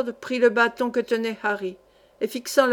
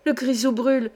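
cheers building to a much louder shout; joyful cheer; 5 dB louder than usual. A narrator's reading. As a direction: burst out with uncontainable joy. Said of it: "ne pouvant contenir sa joie … en s'écriant". (cris de joie qui montent, beaucoup plus fort)

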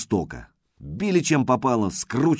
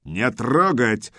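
barking order; slower than usual. Acted. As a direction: bark it like a commander. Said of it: "рявкнул командир варягов Пежич".

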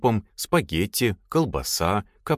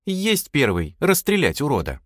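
high, eager acknowledgement; joyful girl; 7 semitones higher than usual. A narrator's reading. Girl gladly accepts the order, joyful. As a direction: report back with glee. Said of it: "послышался радостный голос девочки".

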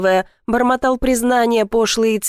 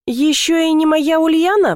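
higher, slow teasing voice; teasing question; 8 semitones higher, slower than usual. A narrator's reading. Platonov teasing Ulyana about her rival, higher and slow. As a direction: tease her by drawing out each word. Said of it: "поинтересовался Платонов".

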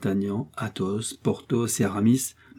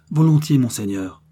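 loud, raised reply; ready assent; 4 semitones higher, 6 dB louder than usual. A narrator's reading. An executioner answering his lord's order, ready assent. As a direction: answer up promptly and firmly.

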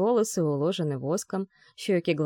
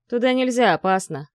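loud, higher barked order; barked warning; 4 semitones higher, 5 dB louder than usual. Acted. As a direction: bark it at them to keep back. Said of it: "рявкнул пожарный".

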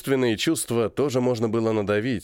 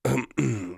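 throat clearing. Acted. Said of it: "Ефремов кашлянул".

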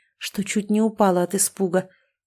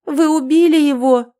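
much higher, louder cry; horrified shout; 7 semitones higher, 7 dB louder than usual. Acted. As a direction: scream the question in horror.

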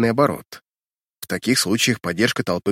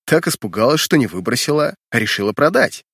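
mocking. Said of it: "отвечая насмешкой".

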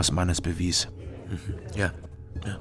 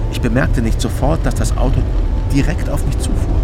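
louder, urgent narration as the car speeds up; tense telling; 2 semitones higher, 8 dB louder than usual. Acted. Narrator recalling the car rushing at him, loud and urgent. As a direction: build the panic as the car comes at him.

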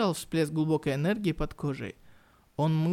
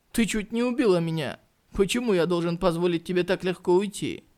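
mocking taunt; 2 semitones higher, 4 dB louder than usual. Hero mocks captive woman.

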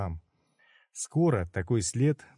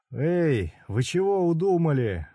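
alarmed shout; 6 semitones higher than usual. Acted. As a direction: yell at the approaching crowd. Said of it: "выкрикнул Удо".

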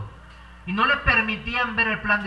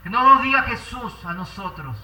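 ordinary talk

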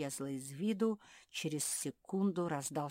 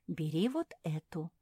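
plain reading voice

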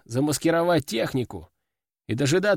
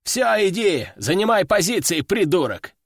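higher, harsh order out; angry dismissal; 4 semitones higher than usual. Acted. Veteran chasing the useless soldier to his post, harsh. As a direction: send him off with contempt.

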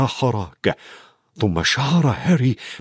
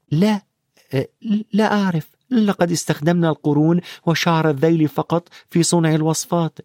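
put-on higher boyish voice; Harry asks the centaur, boyish and curious; young Harry; 5 semitones higher than usual. A narrator's reading. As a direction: ask like a puzzled boy on horseback. Harry answers, voiced high.

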